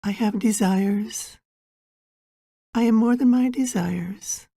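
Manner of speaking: measured meditation guide, long pauses between phrases; guided meditation. Acted. Guide preparing listeners for an inner journey, guided meditation. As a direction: guide them gently inward, phrase by unhurried phrase.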